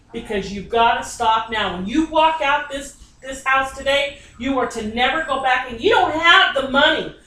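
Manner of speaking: a medium shouting at the client to stop gambling; rising scolding shout. Real, not acted. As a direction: build the warning until you're yelling at him.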